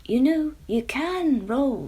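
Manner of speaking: slow, kindly small voice; little worm voice. Acted. The worm encourages Jemima, slow and kindly. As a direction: nudge her gently toward an idea. Worm's voice.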